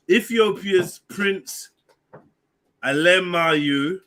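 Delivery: Alemayehu sounded out slowly, syllable by syllable; careful slow name. Shown as a demonstration. Reading the prince's name to the panel, slow and careful. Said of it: "Anyone can say this for me?".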